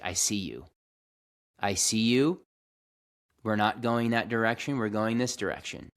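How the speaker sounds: firmly and calmly redirect your own mind; grounded and calm. Retold or imitated. Man speaking to his frantic inner self, grounded and calm. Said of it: "it's very grounded".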